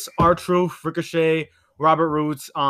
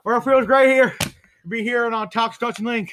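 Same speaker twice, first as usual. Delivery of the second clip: higher, hammed-up commentator answer; Jim Ross; 4 semitones higher, 4 dB louder than usual. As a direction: play the guest commentator on air. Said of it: "Jim Ross, how they feel to be here".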